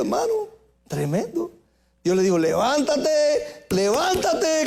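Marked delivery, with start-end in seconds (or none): 2.4-4.7 slow, high ringing command; preached command. Acted. God calls the fallen prophet up, slow and high. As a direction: stretch it out and lift it high.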